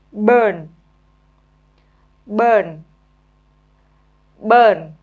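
burn said clearly with a falling tune; model pronunciation. Shown as a demonstration. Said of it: "nghe cô đọc rồi mình nhớ luôn cách phát âm".

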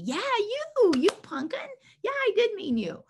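high, swooping playful voice; high-pitched mock telling-off; teasing dog talk. Acted teasing talk to her dogs.

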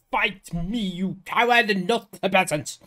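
half-hearted heroic yell; mild mock scream. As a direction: call out the challenge with some force. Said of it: "and screaming like".

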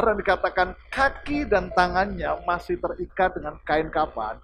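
loud rising sermon voice; preaching at full force. Acted. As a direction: preach it to the crowd. Preaching to the congregation.

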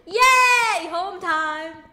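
cheer. Real, not acted. Shift over, going home.

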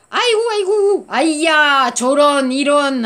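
high, loud cries of dismay; dismayed exclamations. Shown as a demonstration. Teacher acting dismay for the class. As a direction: wail it like bad news.

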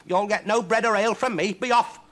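high, loud spiteful shout. Acted. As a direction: send him packing with spite, voice way up. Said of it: "said Huddle spitefully".

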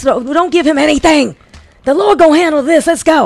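angry church lady. Retold or imitated. Imitating the lady ordering her companions off, angry. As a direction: imitate her angrily ordering everyone away. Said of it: "her voice sounded so angry".

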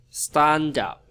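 very slow word-by-word model sentence; deliberate teaching pace, gaps between word groups; phrasing demo. Shown as a demonstration. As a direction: spell out "Stand up for what is right" slowly with pauses. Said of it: "Nghĩ chỗ này".

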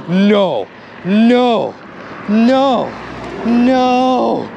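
repeated, separate cries of disbelief; genuinely stunned. Real, not acted. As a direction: react in real shock, word by word. Stunned at finding a gun.

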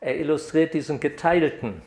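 usual speaking voice

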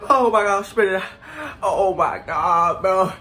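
high, loud cries of burning pain; pained shouting. Real, not acted. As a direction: yelp through the heat. Spicy chip pain reaction.

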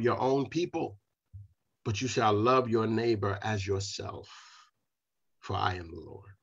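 slow, solemn reading of the verse; scripture reading. Acted. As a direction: read it like holy writ, falling away at the end. Reads scripture aloud.

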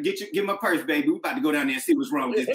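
lightly voiced protective mom, fast; a mama ready to march to school; fired-up mama. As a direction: mom defending her baby to the teacher, fast and indignant. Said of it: "your mom be like".

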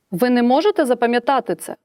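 asking with «можете» stressed; a neutral question; plain question. Shown as a demonstration. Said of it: "Це буде питальне речення". (звичайне питання, без оклику)

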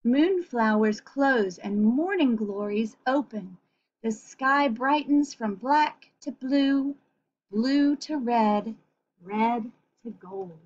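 slow, lilting storybook reading; reading to children. A narrator's reading. Reading the sunrise page to children, slow and lilting. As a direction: draw out each colour slowly. Reads picture book aloud.

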